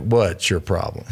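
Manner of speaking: lightly voiced indifferent bear, slow; unbothered bear. Storyteller speaking for the bear who doesn't care, lightly voiced, slow nonchalance. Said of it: "the bear's just like".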